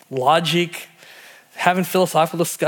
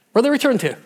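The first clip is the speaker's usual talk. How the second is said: repeated higher and louder for emphasis; emphatic repeat; 8 semitones higher, 3 dB louder, much faster than usual. Shown as a demonstration. Preacher pressing the crowd with a louder question. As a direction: push the question out to the congregation. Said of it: "preacher repeats question louder".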